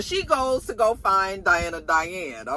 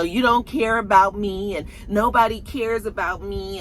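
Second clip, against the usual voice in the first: self-pitying complaint, imitated; mock poor-me whining act; Effie. Girlfriend doing her same shtick, imitated self-pity. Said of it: "doing her same Effie shtick".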